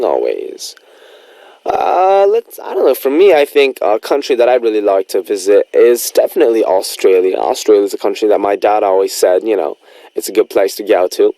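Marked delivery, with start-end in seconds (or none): 1.6-11.3 a lightly attempted Australian accent; Aussie accent attempt. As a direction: try your best Aussie accent, lightly. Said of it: "answer in your best Aussie accent".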